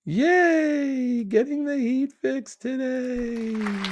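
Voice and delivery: squeaky high, delighted read of the message; high-pitched mock celebration; gleeful cheer. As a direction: cheer it like a happy kid. Reading a listener's happy news.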